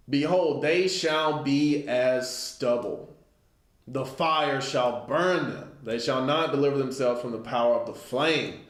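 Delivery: measured, solemn scripture reading; a preacher reading from the pulpit. Acted. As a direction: read the verse like a preacher, slowed. Reads scripture aloud.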